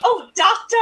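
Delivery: coy, saucy farce swoon; Carry On film. Acted. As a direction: coo it with a rising lilt. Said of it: "as if it is a Carry On film".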